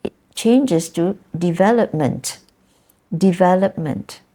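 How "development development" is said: "development" as de-VEL-op-ment; stress in noun form. Shown as a demonstration. Teacher shows verb becoming a noun, stress in noun form. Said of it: "the stress is, changes slightly".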